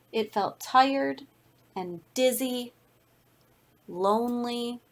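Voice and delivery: put-on lively read-aloud voice for children; story narration. A narrator's reading. Reads picture book to class.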